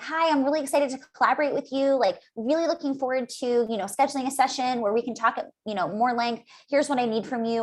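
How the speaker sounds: upbeat, friendly video hello; excited greeting. Retold or imitated. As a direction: sound keen to collaborate. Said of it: "I can be excited".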